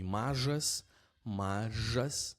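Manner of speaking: "mažas" with a buzzing zh in the middle; Lithuanian ž as zh. Shown as a demonstration. Teacher giving a ž example, voiced zh. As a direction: model "mažas" carefully, zh as in television. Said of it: "let's start with the zh".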